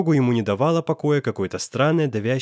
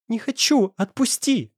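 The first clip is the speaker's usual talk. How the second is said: much higher, a panicked cry; frightened cry; 10 semitones higher than usual. A narrator's reading. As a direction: cry out in fear, trying to break free. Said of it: "испуганно вскрикнула она". (испуганный вскрик)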